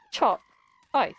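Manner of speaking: "Choc" and "ice" split apart with a pause; spelling it out. Shown as a demonstration. Streamer slowly sounds out choc ice for chat. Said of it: "Like that".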